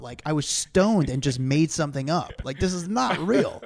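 laughing, incredulous protest; amused disbelief. Retold or imitated. Prankster to people who believed his made-up question, laughing disbelief. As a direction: protest through a laugh, pitch jumping up.

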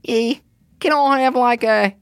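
a clumsy put-on Scottish accent, asking for a Scotch egg; bad Scottish accent. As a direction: mangle a Scottish accent for laughs, way up high. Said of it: "That's definitely not a Scottish accent".

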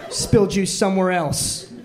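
mock-stern telling-off; hammed-up indignation, punching the words; upset scolding. Waiter tells off little girl over spilt juice, mock upset. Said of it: "I was upset with her spilling".

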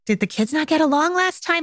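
puzzled second-guessing, pitch climbing; tentative, wondering aloud; mildly thrown by the reply; acted confusion. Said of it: "I get confused. I'm like".

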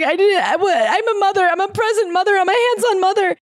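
high, indignant sputter rising into protest; mock upset outburst. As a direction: act out a flustered, offended mom. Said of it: "Tori gets obviously very upset and is like".

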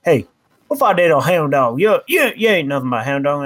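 sung line from a classic song, lightly voiced; impression of a famous singer. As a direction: croon it like the singer. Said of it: that the impression was ready because of the singer.

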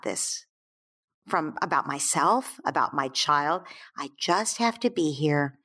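low, calm self-talk with pauses; спокойный родитель. Acted. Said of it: "what a peaceful parent would say".

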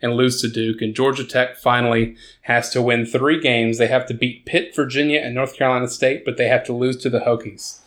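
all in one breath. Real, not acted. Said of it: "I'm out of breath now".

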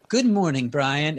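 reading the affirmation like a sweet Irish narrator; Irish voice actress. Retold or imitated. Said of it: "I can't do the accent".

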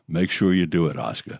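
put-on lightly done Boston accent, dropping the r in "Oscar"; a hint of a Boston mobster's accent. Retold mob client warning his lawyer, light Boston accent. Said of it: "That's a pretty good Boston accent".

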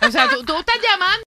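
laughing. Real, not acted. Laughing at caller.

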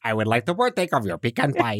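a hammed-up posh restaurant request; mock fancy diner voice. Host mocking a fancy diner, ordering pie in a mock posh voice. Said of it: "Today we are going to talk like this".

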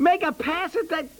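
scornful disbelief. Acted. Husband scoffs at accusation.

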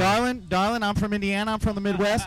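mock Southern belle accent. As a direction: sweet-talk with a touch of Southern accent. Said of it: "Southern accent gets you out".

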